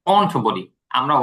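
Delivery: want with the British ont sound, said slowly; slow, careful ont for want; British won't, slow. Shown as a demonstration. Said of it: "আমরা British উচ্চারণ করি".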